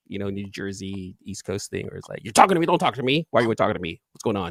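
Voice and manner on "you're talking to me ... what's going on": confrontational New Yorker. Acted. Imitating East Coast locals confronting strangers, mock New York attitude. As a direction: challenge them like a touchy New Yorker. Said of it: "like, an actual New York".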